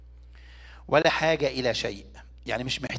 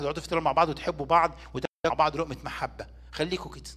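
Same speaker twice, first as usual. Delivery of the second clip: mocking scoff; faster than usual. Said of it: "اللي في العالم ده بيتريق على الكنيسه".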